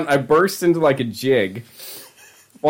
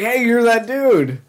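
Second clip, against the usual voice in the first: mock excited girl; 9 semitones higher, slower than usual. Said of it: "She's like".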